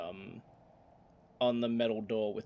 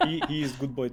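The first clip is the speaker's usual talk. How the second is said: orc broken speech; 4 semitones higher, 6 dB louder, faster than usual. Acted.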